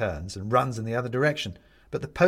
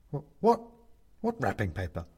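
frightened stammer; panicked. A narrator's reading. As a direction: stammer in alarm. Benedict panicking.

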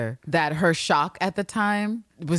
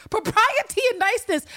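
high, prissy mock offense; mock prim outrage; 4 dB louder than usual. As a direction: clutch your pearls about propriety. Mocking Mariana's prim objection.

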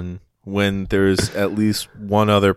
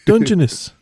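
very high, tiny crab voice; pitched-up cartoon crab; squeaky crab voice; 13 semitones higher, 4 dB louder than usual. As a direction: voice a little crab being polite. Crab voice again.

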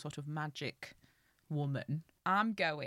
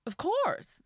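tiny tinkling fairy voice; 12 semitones higher, 6 dB louder than usual. Acted. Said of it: "said the fairy".

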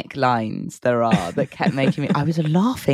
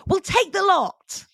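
quoting Harry; slower than usual. Retold or imitated. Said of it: "Harry goes".

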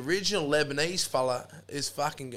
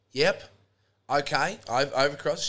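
slightly louder, lifted phone-answering voice; retold phone call; 5 dB louder than usual. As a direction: lightly act out her side of a phone call. Acting woman on the phone.

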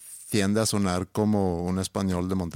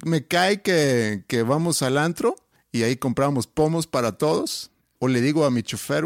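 put-on posh chilango accent. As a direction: brag like a spoiled capital party boy. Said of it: "ahora un chilango, mi rey".

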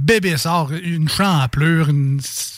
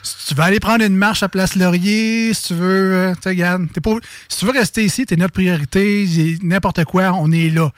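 customer service voice. Retold or imitated. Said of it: "ça ressemblait un peu à ça".

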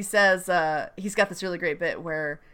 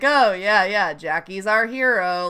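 bemused sarcasm; 3 dB louder than usual. Retold or imitated. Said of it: "the way she says it".

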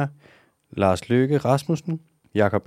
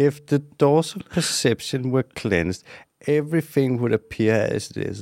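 put-on a light Scottish accent on "If the doors of perception were cleansed", slow and grand; slower than usual. On request, the poet's line in a mild Scottish accent. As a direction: recite it like Sean Connery, in a hint of Scottish brogue. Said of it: "prøv lige igen med din skotske accent".

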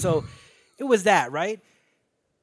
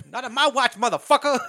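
raised, higher defiant voice; hammed-up tough warning; defiant mock shout; 7 semitones higher, 4 dB louder than usual. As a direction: shout it like a school boss standing guard. Voicing Joe Clark defending his school.

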